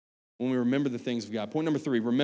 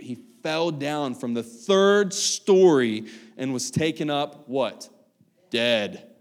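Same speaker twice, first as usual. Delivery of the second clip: scripture reading. Acted. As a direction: read the passage with weight. Reads scripture aloud.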